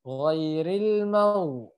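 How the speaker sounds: ghairil mau slow, with heavy throaty gh; ghain tebal. Shown as a demonstration. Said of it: "dia jadi tebal". (ghairil mau pelan, gh tebal)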